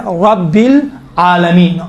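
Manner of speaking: very slow "رب العالمین" with full, thick R; heavy R. Shown as a demonstration. Teacher demonstrating R with zabar, slow and heavy. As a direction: round the R in "رب" and draw out "العالمین". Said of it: "موٹا تلفظ کیا جاتا ہے".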